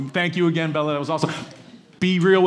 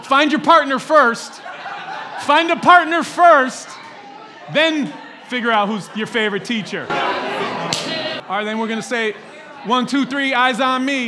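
kindergarten teacher voice; 4 semitones higher, slower than usual. Pretend. Teacher managing room full of adults.

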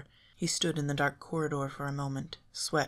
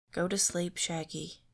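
sleepy dismissive; 4 semitones higher than usual. Acted. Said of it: "shrugging him off".

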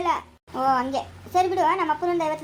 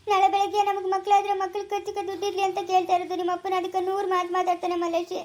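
tearful complaint; 2 semitones higher than usual. Acted. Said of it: "ಅಳ್ಬೇಡ, ಸುಮ್ನೆ ಇರು".

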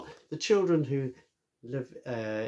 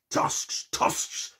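shouting boar. Acted. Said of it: "shouted the Boar".

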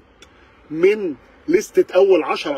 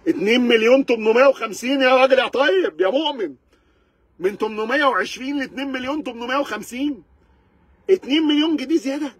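outraged; 5 semitones higher than usual. Real, not acted. Outraged at the price jump.

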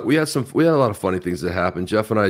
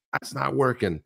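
retold annoyance; 5 semitones higher than usual. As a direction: imitate a mad driver without raising volume. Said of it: "she was mad".

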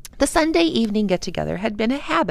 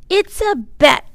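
put-on little girl voice; 11 semitones higher, 9 dB louder than usual. A narrator's reading. Little girl accepts dare.

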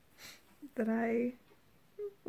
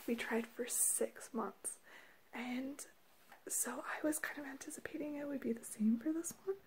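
whispering; 7 dB quieter than usual. Real, not acted. Whispered story, child asleep.

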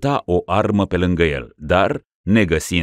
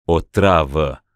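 flat confirmation; 3 dB louder, slower than usual. Acted. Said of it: "urmă Spancioc".

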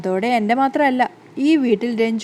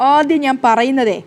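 annoyed; 3 dB louder, slower than usual. Acted. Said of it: "ഗോവിന്ദിന് ദേഷ്യം വരികയാണ്".

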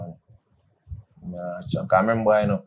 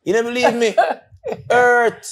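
mock hurt Bob; 5 semitones higher than usual. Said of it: "Bob say".

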